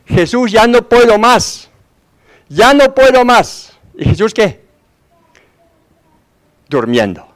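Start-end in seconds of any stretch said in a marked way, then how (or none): 0.1-1.7 slow, higher pleading cry of despair, imitated; grito desesperado imitado. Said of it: "empiezan a gritar". 2.5-3.8 much higher, slow, breaking plea of "ya no puedo más"; grito aún más desesperado. Retold or imitated. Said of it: "empiezan a gritar".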